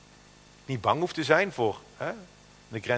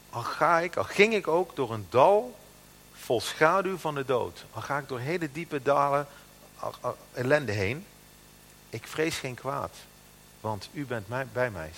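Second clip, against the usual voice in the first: psalm reading. Acted. Preacher reads David's psalm.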